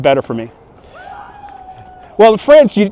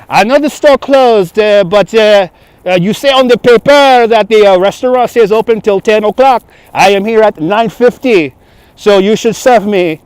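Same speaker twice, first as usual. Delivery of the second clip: put-on arrogant French accent; 5 semitones higher, 4 dB louder than usual. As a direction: demand service as an arrogant French tourist, accent thick. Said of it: "my French accent is the, is the arrogant French tourist accent".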